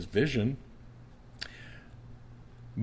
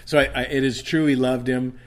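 preaching; 6 semitones higher, 10 dB louder than usual. Acted. Preaching burst.

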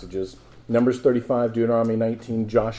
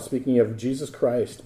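ordinary delivery

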